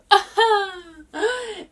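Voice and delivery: loud, high burst of laughter. Real, not acted. Luxury addict joking about rehab, high loud laugh. Reacting to her own rehab question.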